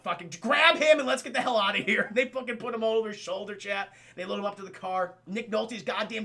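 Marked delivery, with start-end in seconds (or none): 0.0-2.1 raised, loud mock command; urgent order. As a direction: bark it like an escape order. Urgent order in retold escape.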